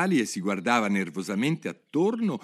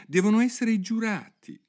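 proud conclusion; 4 dB louder than usual. A narrator's reading. Alice proudly concludes her thought.

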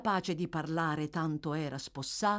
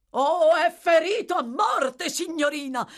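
immense self-satisfaction; 11 semitones higher, 7 dB louder than usual. A narrator's reading. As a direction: announce it with proud relish. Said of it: "rispose Giles con un indescrivibile compiacimento".

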